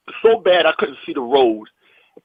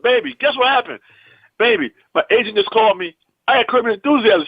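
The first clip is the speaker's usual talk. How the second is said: higher-pitched, eager news-breaking; retold excitement; 6 semitones higher than usual. Husband phones his wife about landing the show, excited. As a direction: act out bursting to share good news.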